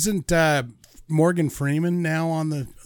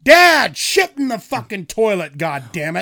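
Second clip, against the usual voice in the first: mock yell at dad; 2 semitones higher than usual. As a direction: start with a big yell on Dad. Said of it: "When he gets incontinent".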